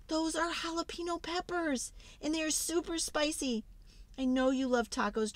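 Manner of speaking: high, urgent pleading; urgent panic. Acted. Reader frantically warning the dragons off spicy tacos. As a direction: beg the dragons to stop before it's too late.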